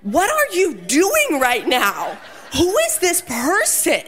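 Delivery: half-laughing, baffled at her own antics; laughing disbelief. Retold or imitated. Wife asking herself what she is doing, laughing. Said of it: "I'm watching myself going".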